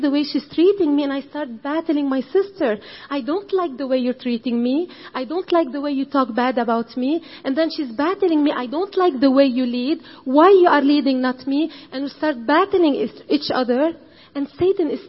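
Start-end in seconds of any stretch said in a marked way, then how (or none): 3.1-7.2 raised, complaining voice at her sister; mock quarrel. Woman to her sister, complaining louder. 8.5-11.7 mock accusation. Sister accusing her over leading, indignant and louder.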